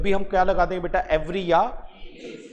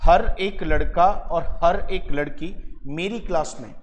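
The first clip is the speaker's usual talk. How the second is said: slow dictation. Shown as a demonstration. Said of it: "देखो क्या लिखना था".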